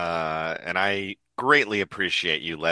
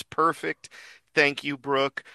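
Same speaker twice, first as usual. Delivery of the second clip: higher-pitched woman's character voice; Robin; 6 semitones higher than usual. Acted. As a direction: lift it into a lightly voiced heroine. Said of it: "she says".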